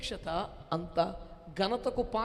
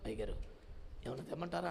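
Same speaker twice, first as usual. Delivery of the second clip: much softer, lower ear-side murmur; 8 semitones lower, 11 dB quieter, much faster than usual. Retold or imitated. A fussy helper murmuring to the preacher, much softer. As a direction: lean in and offer it close to his ear. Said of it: "చెవిలోకి వచ్చి".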